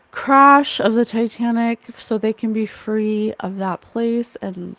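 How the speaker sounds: spoken prayer for lost souls; earnest prayer. Acted. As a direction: call on the Spirit with reverence.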